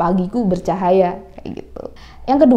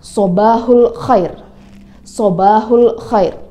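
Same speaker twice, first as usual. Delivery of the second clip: slow model phrase; 4 dB louder, slower than usual. Shown as a demonstration. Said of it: "Kalau di Arab ngomongnya".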